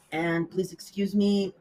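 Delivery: hoarse from a cold; raspy voice, under the weather. Real, not acted. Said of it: "so my voice is kind of ra-, raspy".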